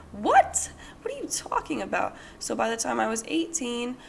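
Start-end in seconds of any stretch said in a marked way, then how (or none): 0.1-2.2 breathless whispered disbelief; incredulous whisper. Retold or imitated. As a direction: gasp it out in disbelief. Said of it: "I would have said".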